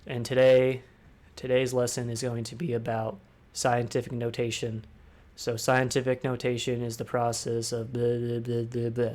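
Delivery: flat monotone teacher; boring bland. Shown as a demonstration. Mimicking a boring teacher reading a lesson. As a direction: drone like a dull teacher. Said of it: "super boring and super bland".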